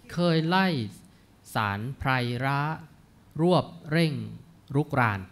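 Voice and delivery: put-on measured, chanted reading of old Thai verse; verse recitation. Lecturer reciting classical verse to the class, measured. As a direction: read each phrase of the poem with care.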